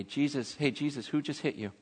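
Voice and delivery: understated taunt of a helpless man; mocking. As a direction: needle him with mock questions. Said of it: "and mock him and go".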